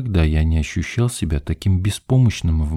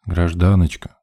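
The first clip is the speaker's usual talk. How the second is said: patient. A narrator's reading. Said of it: "терпеливо продолжил я".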